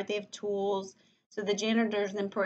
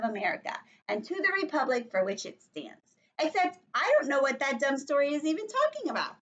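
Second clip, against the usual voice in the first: put-on lively first-person child narrator; animated story reading; 4 semitones higher, 3 dB louder than usual. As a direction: read aloud to children, pitch jumping up.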